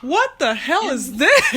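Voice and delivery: slow, laughing disbelief; laughing outraged question to the pic sender; shocked laughing reply. Retold or imitated. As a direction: act out the shock of opening that picture. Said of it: "I said".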